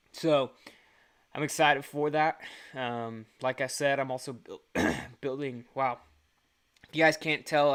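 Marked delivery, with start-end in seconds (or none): 4.3-6.0 throat catching after food went down wrong; choking on food. Real, not acted. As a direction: speak through a choking throat. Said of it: "I choked on some food and it went down the wrong pipe".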